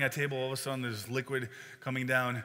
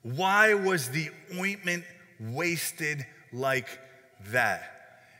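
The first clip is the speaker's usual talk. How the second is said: indignant; much slower than usual. Retold or imitated. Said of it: "some who said to themselves indignantly".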